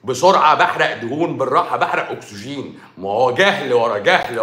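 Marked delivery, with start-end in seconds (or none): 0.0-2.8 laughing mockery. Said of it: "واحد بيقول لك".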